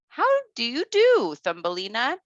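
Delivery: high, lightly voiced friendly grasshopper; cheerful greeting from a little insect.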